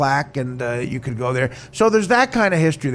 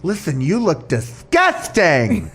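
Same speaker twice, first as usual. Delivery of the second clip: imitating the gay guy; 8 semitones higher, slower than usual. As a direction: ham up a sneering, dragged-out put-down. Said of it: "I'll do the gay guy".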